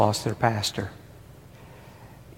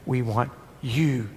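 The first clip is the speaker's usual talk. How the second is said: soft, almost whispered plea; hushed prayer; 6 dB quieter than usual. Acted. Preacher leading the congregation in prayer, hushed whisper. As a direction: let it fall to a whisper.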